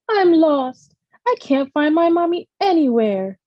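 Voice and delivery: high, tearful plea; lost child pouring out her worry; crying. A narrator's reading. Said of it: "Grace cried".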